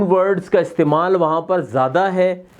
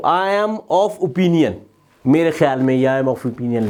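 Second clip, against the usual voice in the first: slow demo reading; 4 semitones lower, slower than usual. Shown as a demonstration. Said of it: "like this".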